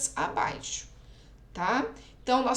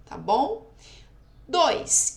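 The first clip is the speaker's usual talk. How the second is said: usual speaking voice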